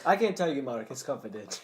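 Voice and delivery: put-on oddly accented, stilted actor; hammed-up stilted movie delivery; Tommy Wiseau. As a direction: refuse like an awkward bad-movie actor. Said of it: "ready to do my impression".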